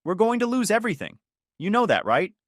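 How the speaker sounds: high, panicked pleading; trembling. A narrator's reading. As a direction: voice shaking with fear.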